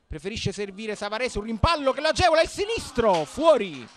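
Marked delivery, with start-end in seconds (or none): 1.4-3.9 excited chance call. Real, not acted. Near chance in live commentary.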